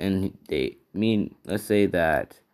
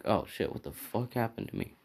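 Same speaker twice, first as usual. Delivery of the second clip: dazed waking; 3 semitones higher, 10 dB quieter than usual. Acted.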